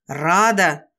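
loud yelled name; angry shout after her. A narrator's reading. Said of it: "раздался вопль за моей спиной".

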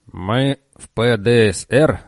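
slow, grating robot voice; grinding robot voice. Acted. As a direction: grate it out like rusty metal. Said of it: "заскрежетал он".

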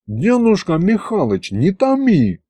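pleading. Acted. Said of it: "взмолился Аристофан".

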